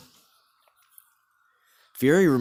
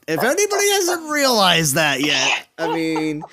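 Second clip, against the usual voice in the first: whiny voice; 3 semitones higher than usual. Retold or imitated. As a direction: whine it like a mocking impression. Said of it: "we do the whiny voice".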